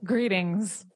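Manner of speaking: lightly voiced alien greeting; a hint of a sci-fi alien.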